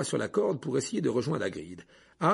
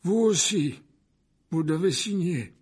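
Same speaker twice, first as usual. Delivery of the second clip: raised, carrying voice of authority; Dumbledore; 5 semitones higher, 5 dB louder, slower than usual. A narrator's reading. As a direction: instruct firmly, pitched up. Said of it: "la voix de Dumbledore". (voix haute et ferme)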